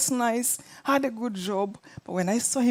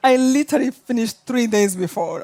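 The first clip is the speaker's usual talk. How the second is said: laughing; 5 dB louder than usual. Real, not acted. Laughing at the coincidence.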